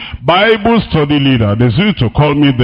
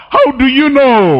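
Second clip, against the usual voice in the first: pitched-up how do you know; incredulous challenge; 7 semitones higher than usual. Acted. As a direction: throw the question back, incredulous. Preacher challenges gossiping believers.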